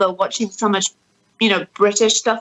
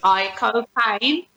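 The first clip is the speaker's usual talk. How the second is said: slow, drawn-out cockney name-drop; softly drawled British impression; Michael Caine; 5 dB quieter, much slower than usual. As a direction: stretch it out like the London film star. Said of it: "I have to say Michael Caine".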